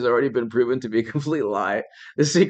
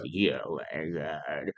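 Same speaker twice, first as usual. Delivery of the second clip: mock whiny; slower than usual. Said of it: "I'm like".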